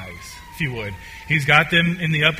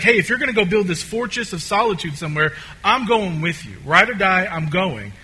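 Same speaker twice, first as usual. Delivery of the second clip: Thomas; 3 semitones higher, 3 dB louder than usual. Acted. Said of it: "Thomas is wanting a map".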